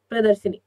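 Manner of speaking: प्रदर्शनी said pradarshani with a short a; firm प्रदर्शनी, no i after sh; correct pronunciation. Shown as a demonstration. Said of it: "प्रदर्शिनी नहीं".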